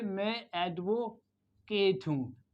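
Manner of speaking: mock self-importance, drawn out at half pace; proud boast. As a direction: imitate a proud lawyer, slowly stretching "advocate". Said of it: "अपने pride में कहा".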